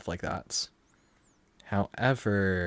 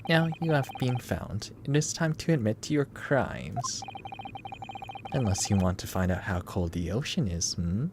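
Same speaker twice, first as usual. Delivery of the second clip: put-on Russian accent. Player voicing the Russian captor threatening in a Russian accent. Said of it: "That accent? Eastern European?".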